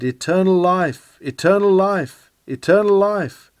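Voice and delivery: a preacher's ringing cry, rising a little each time; building mock shout, not full force. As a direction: call it out like a man running for his life. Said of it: "as he ran he shouted".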